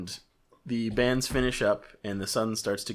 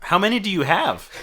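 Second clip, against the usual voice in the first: high, loud woman customer; middle-aged woman voice; 10 semitones higher, 10 dB louder than usual. Acted. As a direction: pitch it up as a pushy lady shopper. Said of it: "Middle-aged woman walks up".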